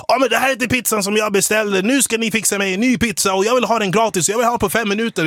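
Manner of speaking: mild mock rant of an entitled customer; mock yell. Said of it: "skriker jättehögt".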